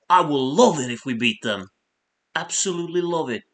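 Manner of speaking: attempted accent impression, punching LOVE; Kevin Keegan. Streamer quotes a favorite Kevin Keegan clip, impassioned impression. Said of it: "I can't do his accent".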